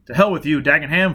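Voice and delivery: loud defiant shout. Acted. Foyle shouting defiance at Dagenham, loud. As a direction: spit it at him. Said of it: "Foyle shouted".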